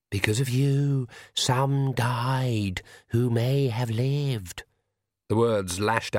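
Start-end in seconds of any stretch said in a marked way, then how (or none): 0.1-4.6 slow, eerie voice from the dark; shadow voice. Acted. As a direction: speak like her dark inner shadow. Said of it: "voices from her shadow".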